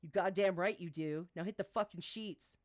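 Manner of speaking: loud, curt scolding order; angry. Acted. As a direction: shut him down hard. V ordering Gabe to bed.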